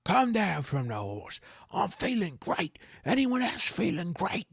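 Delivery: high put-on voice, rising; elated trainer. Trainer calling trainees off the horse, elated. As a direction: build to a high, eager question.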